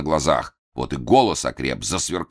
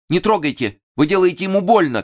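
high, loud protesting cry; крик протеста; shout; 14 semitones higher, 4 dB louder than usual. A narrator's reading. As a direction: shout at him to stop hurting. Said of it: "крикнула она Масе".

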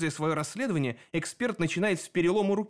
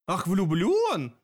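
slow, drawn-out mocking surprise; 4 semitones higher, 4 dB louder, much slower than usual. A narrator's reading. Sep mocks Dan's being in love, slow and drawn out. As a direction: savour the word in disbelief.

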